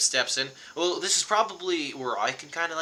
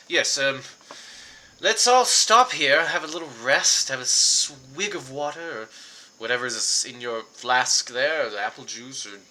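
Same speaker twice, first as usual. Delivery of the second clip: Reginald the hunter; 4 dB louder than usual. Acted.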